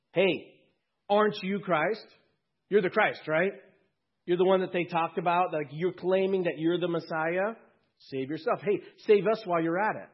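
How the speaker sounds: a mocking thief, loud and high; mocking criminal. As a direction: sneer at him from the cross. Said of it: "One of them was mocking him".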